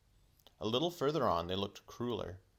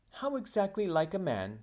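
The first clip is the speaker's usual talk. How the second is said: much higher, louder prim lady voice; very grown-up voice; 10 semitones higher, 5 dB louder than usual. Acted. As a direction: talk down to him like a grown woman. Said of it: "in a very grown-up voice".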